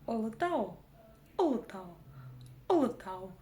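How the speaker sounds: «Олотау» с кратким первым «о»; не тяни первое «о» в «Олотау»; очень короткое «о». Shown as a demonstration. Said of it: "произнести её очень и очень коротко". («Олотау» коротко, отдельными повторами)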